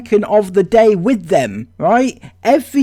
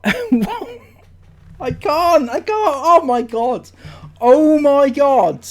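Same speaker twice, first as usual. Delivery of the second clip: laughing exasperation; 4 semitones higher, much slower than usual. Real, not acted. Laughing at comment.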